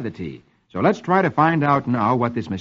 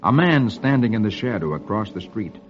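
measured comic-strip reading; old-time radio storyteller; story narration; 4 semitones lower than usual. A narrator's reading. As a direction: read the story out to a child.

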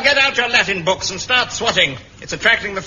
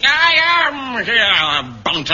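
slow menacing announcement. Acted. Teacher catches late Bunter.

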